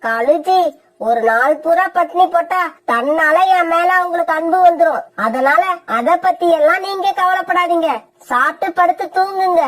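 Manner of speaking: a lightly voiced sharp, sulky wife; selfish young wife. Wife Kori arguing with her husband, sulky and sharp. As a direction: complain like a spoiled wife who wants help kept on.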